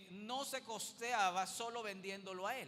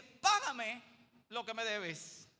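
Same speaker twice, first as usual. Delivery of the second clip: angry demand; 5 dB louder, slower than usual. Acted. Servant grabs debtor by throat.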